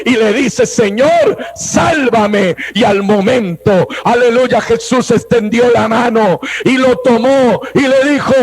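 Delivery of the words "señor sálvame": high shouted plea; desperate cry. Acted. Peter sinking in the waves shouting to the Lord, urgent plea. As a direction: call out while going under.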